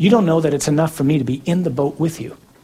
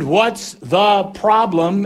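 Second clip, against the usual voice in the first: slow, stretched call, pitched up; comic shout through the storm; yelled answer; 4 semitones higher, much slower than usual. Acted. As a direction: holler back word by word. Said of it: "and Jesus answered".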